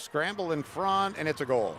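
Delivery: excited announcer erupting at the goal; goal call. Real, not acted. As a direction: belt out the goal. Goal scored in scramble.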